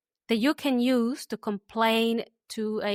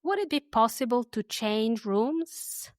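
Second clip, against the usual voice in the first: polite request. Shown as a demonstration. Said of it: "go to the reception and say".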